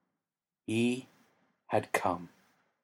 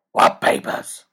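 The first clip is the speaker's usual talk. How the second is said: mild shock; 9 dB louder, slower than usual. Acted. Batman's shocked reply.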